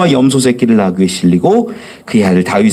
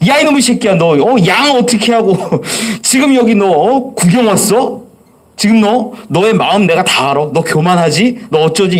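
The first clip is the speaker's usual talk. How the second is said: raised, scolding mock rebuke of a little brother; imitating angry big brother; 4 semitones higher than usual. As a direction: scold him like an annoyed older brother, half-acted. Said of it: "막 화를 내면서 하는 말". (화난 큰형 흉내)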